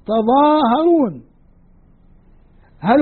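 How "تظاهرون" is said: تظاهرون read slowly with a single light ظ; slow clear reading. Shown as a demonstration. Teacher slowly reads the shortened verb to class. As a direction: spell out تظاهرون syllable by syllable. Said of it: "فإيش صار الفعل".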